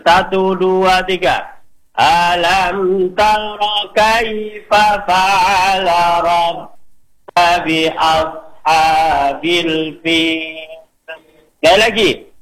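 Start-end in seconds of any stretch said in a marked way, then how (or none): 2.0-10.7 slow melodic tartil chant; teacher modelling tajwid recitation; Quran recitation. Shown as a demonstration. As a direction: recite it measured and sung. Class recites together.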